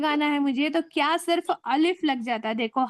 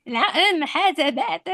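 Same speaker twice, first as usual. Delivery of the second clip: Arabic pronunciation; much slower than usual. Retold or imitated. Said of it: "ऐसा बोलते हैं वो लोग".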